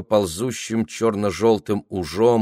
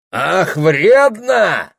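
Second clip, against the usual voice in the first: slow, high, loud jeer; mocking shout; 10 semitones higher, 8 dB louder, much slower than usual. A narrator's reading. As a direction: yell it back, drawn out. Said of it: "прокричали с трёх мест голоса".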